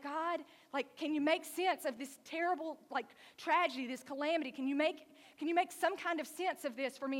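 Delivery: a loud, high, aching appeal; desperate plea. Retold or imitated. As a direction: beg God to make sense of it. Elijah begs for sense.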